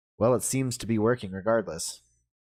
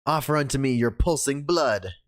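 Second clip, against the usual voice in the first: dramatic vampire catchphrase; 3 semitones higher than usual. Pretend. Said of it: "Be as dramatic as, as you can".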